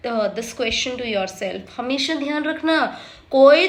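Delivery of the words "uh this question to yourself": slow and deliberate; slow quoted line. Retold or imitated. Imitating a drama line, slow and deliberate. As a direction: lay the words out slowly, imitating.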